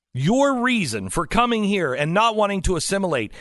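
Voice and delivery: ordinary talk, nothing marked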